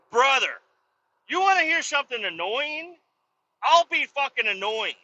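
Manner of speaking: high-pitched, worked-up comeback; heated challenge. Retold or imitated. Owner promising to out-annoy the neighbor, heated challenge. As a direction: throw the challenge back at him. Acted counter-threat to neighbor.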